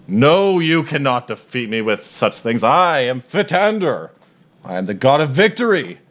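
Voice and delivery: lightly voiced pompous war god; boastful god voice. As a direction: announce yourself as an unbeatable god. Fitander boasts again.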